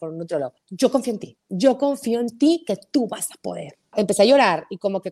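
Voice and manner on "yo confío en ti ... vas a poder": pat her on the head with your voice; condescending encouragement. Retold or imitated. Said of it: "condescendiente que estaba haciendo conmigo".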